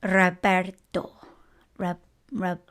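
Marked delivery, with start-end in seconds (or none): 0.0-1.1 "Roberto" slowly as ro-BEHR-to; Spanish pronunciation. Shown as a demonstration. Trying out a Spanish name, slow careful "Roberto". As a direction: sound out "Roberto" syllable by syllable. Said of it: "I say Roberto".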